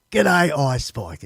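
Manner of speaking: haltingly slow read of "G'day, Ice Spike". Real, not acted. Reading a viewer's letter aloud, slow and careful. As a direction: sound out "G'day, Ice Spike" word by word, slowly. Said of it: "when I read, I'm slower".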